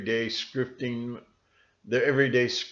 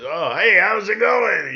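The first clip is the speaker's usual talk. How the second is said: higher, louder breezy hello; chirpy greeting; 9 semitones higher, 7 dB louder than usual. Retold or imitated. A guy greeting the speaker, breezy higher hello. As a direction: toss off a bright casual greeting. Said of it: "some guy says".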